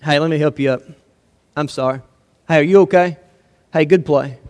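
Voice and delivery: low, softened conciliatory voice; acted peacemaker. Peacemaker helping up a basketball opponent, acted conciliatory and low. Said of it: "What would a peacemaker have done?".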